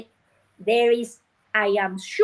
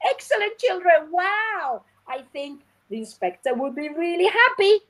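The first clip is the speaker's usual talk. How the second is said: enthusiastic praise; 5 semitones higher than usual. Retold or imitated. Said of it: "You tell them to read".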